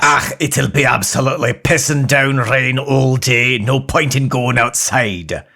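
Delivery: put-on Scottish accent.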